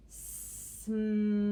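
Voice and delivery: "Smile" drawn out on a level pitch, long s. Shown as a demonstration. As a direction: stretch "Smile" out like a slow robot. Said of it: "I just say it slower".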